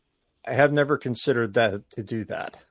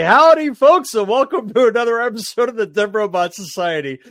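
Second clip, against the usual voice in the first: loud high announcer welcome; podcast intro; 10 semitones higher, 8 dB louder than usual. Acted. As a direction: boom out the show intro. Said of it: "perfect time to say".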